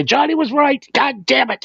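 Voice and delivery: high, hammed-up "Johnny was right" groan; mock defeated admission. Friend pretending the doubter finally gives in, mock-defeated. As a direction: play a beaten man finally admitting he was wrong. Future you admitting defeat.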